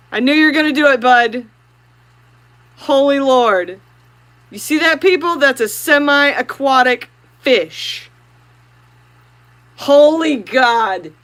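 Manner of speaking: loud, slowed exclamations of delight; thrilled. Real, not acted. Streamer praising her fish to viewers, loudly thrilled. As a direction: marvel out loud.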